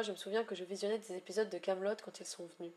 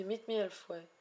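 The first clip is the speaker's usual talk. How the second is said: English accent. Real, not acted. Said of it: "Excusez mon accent anglais déplorable".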